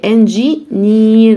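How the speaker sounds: "انجينير" as en-ji, then a long neer; bit by bit. Shown as a demonstration. Teacher joins it little by little for learners, "انجينير" bit by bit. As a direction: ease "انجينير" together gradually, still in parts. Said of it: "شويه شويه".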